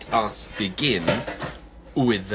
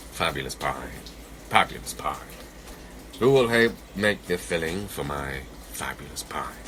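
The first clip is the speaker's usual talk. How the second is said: sly; 6 semitones lower than usual. Acted. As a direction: coax them slyly, deep and hushed. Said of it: "he sounded rather sly".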